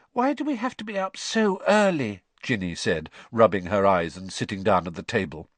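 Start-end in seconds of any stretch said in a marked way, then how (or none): 0.1-2.2 drowsy, just woken up; sleepy girl's whine. A narrator's reading. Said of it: "pale and drowsy".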